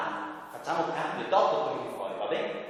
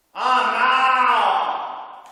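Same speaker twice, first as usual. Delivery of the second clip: shocked puppet cry; 7 semitones higher, 9 dB louder than usual. Acted. Puppet drops something.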